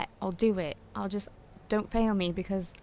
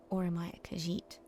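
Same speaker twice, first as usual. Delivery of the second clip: whispered aside to herself; 2 semitones lower, 7 dB quieter than usual. Real, not acted. Wondering aloud to chat about her role, whispered. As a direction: breathe the question out unvoiced.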